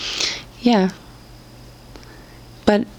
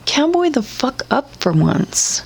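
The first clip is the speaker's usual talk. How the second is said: mock cowboy; 6 semitones higher than usual. Mock tough command.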